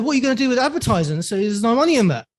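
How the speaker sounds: high, fast Cockney dad; Jason Statham-style Cockney. Retold or imitated. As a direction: imitate a dismissive Cockney father, rattled off. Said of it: "He speaks like Jason Statham".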